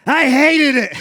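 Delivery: put-on high, loud little-kid voice; child's blunt answer. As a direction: blurt it out like an upset five-year-old. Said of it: "He goes".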